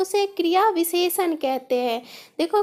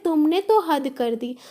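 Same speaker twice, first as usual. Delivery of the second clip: तुमने तो हद कर दी with तो leaned on; stress on तो. Shown as a demonstration. Teacher to students, showing emphasis on तो. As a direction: press on तो to add emphasis. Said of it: "ज़्यादा अतिरिक्त बल देने के लिए".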